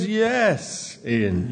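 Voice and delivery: high, drawn-out yes; mock-eager, high-pitched yes; enthusiastic. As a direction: answer eagerly on the congregation's behalf. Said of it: "you say enthusiastically".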